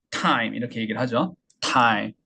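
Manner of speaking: "타임" as English time, aspirated burst t; "타임" in one English syllable with springy t; popped English t. Shown as a demonstration. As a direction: flick the t hard in "타임". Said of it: "이렇게 튕기는 소리를".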